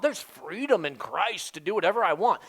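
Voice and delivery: a hint of a smug churchgoer; mock excuse. Mocking a self-justifying believer.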